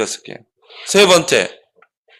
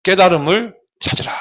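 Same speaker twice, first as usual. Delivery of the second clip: lecturing monk; 5 semitones lower than usual. Acted. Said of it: "눈을 감고 딱 눈을 떠고 뭐라 하냐면은".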